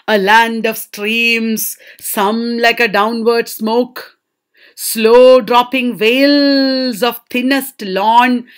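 slow, lingering verse reading; poem recitation. Acted. Teacher reads the second stanza to students, slow recitation. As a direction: stretch the words like slowly falling veils.

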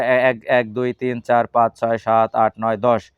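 teacher counting the japa beads aloud. Shown as a demonstration. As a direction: count each bead out for the children. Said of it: "এটা এইভাবে".

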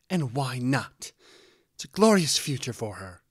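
loud, forceful challenge; arguing back. A narrator's reading. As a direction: demand it in a heated quarrel. Mother arguing back loudly.

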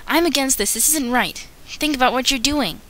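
an extra objecting to the pack's decision; extra protesting. Acted. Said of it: "I'm gonna do the extras".

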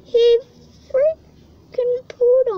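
loud, high disgusted shriek; grossed out yell. Real, not acted. Worm pooed on her.

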